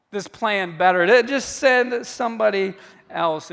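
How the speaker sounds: a hint of a pleading Moses; lightly voiced weary plea; begging Moses. Moses begging God to send someone else, lightly pleading. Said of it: "this is his bottom line".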